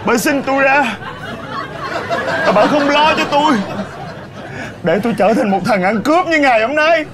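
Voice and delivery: bitter accusation. Acted. Son accusing mother, melodrama.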